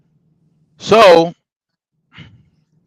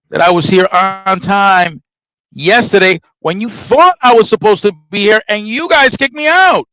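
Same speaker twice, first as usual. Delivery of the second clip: rising anger; 3 semitones higher than usual. Retold or imitated. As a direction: lose patience by the end. Arguing with the clerk.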